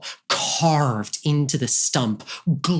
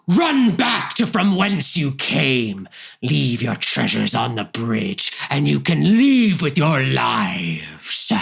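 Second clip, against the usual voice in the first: dopey cartoon bellow. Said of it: "the ogre says".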